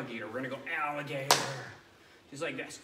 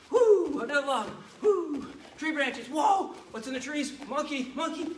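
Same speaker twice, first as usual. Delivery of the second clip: put-on high, loud, thrilled storytelling for kids; kids' karate coach narrating an imaginary jungle run; excited jungle run; 8 semitones higher, 6 dB louder than usual. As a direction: lead the pretend adventure with big energy.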